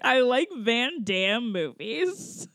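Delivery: slow, drawn-out douche impression; hammed-up douchey guy. Host imitates fake Damon on his date, hammed-up douchey. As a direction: ham it up, stretching each word. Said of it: "hammed up this, like, very, like, douchey trope".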